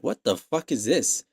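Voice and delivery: ordinary talk, nothing marked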